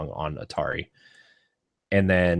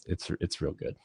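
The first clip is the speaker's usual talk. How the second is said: whispered; 10 dB quieter than usual. Real, not acted. Hushed aside about trailer.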